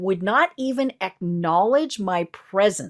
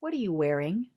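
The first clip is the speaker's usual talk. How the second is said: soft, low come-on line; sultry quiet question; 4 semitones lower, 8 dB quieter than usual. Retold or imitated. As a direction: purr it to the telemarketer. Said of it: "when they pause".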